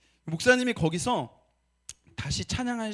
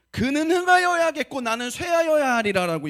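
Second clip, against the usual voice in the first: higher, louder scripture proclamation; proclaiming scripture; 6 semitones higher, 7 dB louder than usual. Acted. Pastor quoting John the Baptist, loud proclamation. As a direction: ring out the verse to the church.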